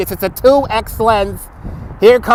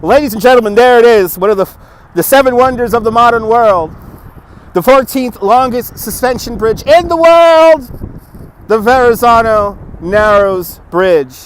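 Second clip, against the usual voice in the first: tour guide; 2 semitones higher, 4 dB louder than usual. Acted. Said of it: "let's go into tour guide mode".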